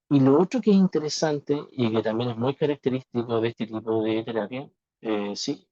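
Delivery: robotic, distorted mic audio; glitchy robotic bad connection; half robot voice. Real, not acted. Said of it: "se escucha como un poquito como robot-, como robótico".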